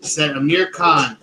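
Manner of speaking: measured reading of a news story. Real, not acted. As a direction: read the report out clearly, word by word. Reads the news story aloud.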